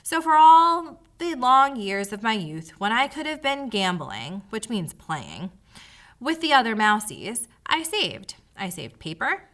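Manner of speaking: mildly high, pleading mouse; hammed-up pitiful mouse. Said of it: "His voice became high and pitiful again".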